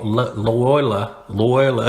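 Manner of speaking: stumbling "Loyola", squashed into "loy-la"; botched pronunciation. Shown as a demonstration. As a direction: trip over "Loyola", losing the middle syllable. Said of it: "that's how I couldn't say it".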